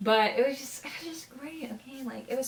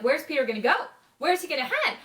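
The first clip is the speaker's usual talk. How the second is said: higher, louder anxious question; worried outburst; 7 semitones higher, 5 dB louder than usual. Real, not acted. Fan fretting about Peter's safety, higher and louder. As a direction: fret out loud for him.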